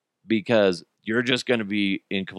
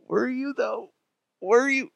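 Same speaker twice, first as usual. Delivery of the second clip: teasing doubt; 12 semitones higher than usual. Real, not acted. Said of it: "teasing suspicion".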